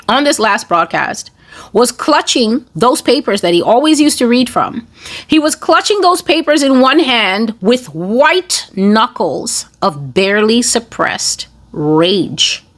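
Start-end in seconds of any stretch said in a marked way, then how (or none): none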